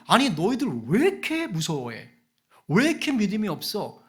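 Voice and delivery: lightly acted incredulous chiding; a touch of exasperation; mild exasperated rebuke. Replays Jesus's rebuke in casual words.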